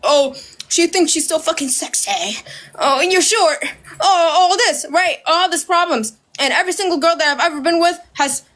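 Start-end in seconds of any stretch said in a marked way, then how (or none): 0.0-6.2 parroting complaints with a laugh breaking in; sneering list of complaints, laughing through it; mocking the haters while laughing. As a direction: mimic the critics, giggling. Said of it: "picked a problem with me".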